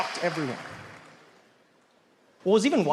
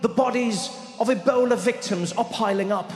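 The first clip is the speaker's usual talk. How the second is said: lightly raised, measured British news report; solemn on-the-spot report; British reporter; 4 semitones higher than usual. Retold or imitated. Reporter talking to Sarah in the studio, lightly posh news voice. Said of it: "someone random on Sky or BBC".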